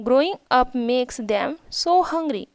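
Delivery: slow, careful read of each English word; slow reading aloud. Shown as a demonstration. Teacher reading the English story line to her pupils, slow and careful. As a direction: read it out slowly for the class.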